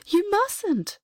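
high, sharp little cry; mouse's cry. A narrator's reading. The mouse begs the prince not to swallow it, a high little cry. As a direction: squeak it out in alarm. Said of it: "cried the mouse".

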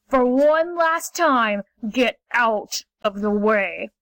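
slow, deliberate panther warning; final warning. Acted. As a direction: draw out the last threat.

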